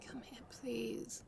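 slow, soft whispered invitation; intimate whisper. Acted. Inviting partner close for a kiss, slow whisper. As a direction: draw them in, whispering slowly.

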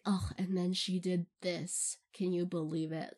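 lightly voiced blasé celebrity narrator. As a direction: narrate with understated indifference, a touch low. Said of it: "be just the most blasé".

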